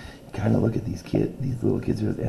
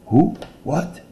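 stammering; 10 semitones higher, 9 dB louder than usual. Acted. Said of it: "Rick stammered".

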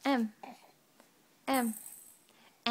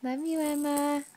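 tender; slower than usual. Real, not acted. Saying goodbye to baby.

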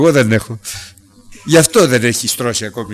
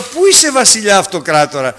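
calling out; 6 semitones higher than usual. Acted. King calling down into pit.

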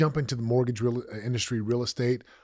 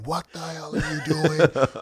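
higher, louder, slowed angry yell; yelling at kids; 5 semitones higher, 4 dB louder, slower than usual. Retold or imitated. Father yelling at his kids over wasted milk, angry. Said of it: "when I say yelling, I mean".

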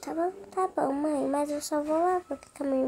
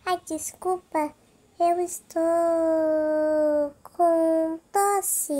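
grandma voice; 4 dB louder, slower than usual. Pretend. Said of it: "Você tá com uma voz diferente, viu, vovó?".

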